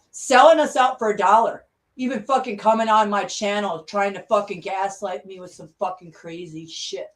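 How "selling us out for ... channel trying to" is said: angry shout. Real, not acted. Furious rant about being sold out.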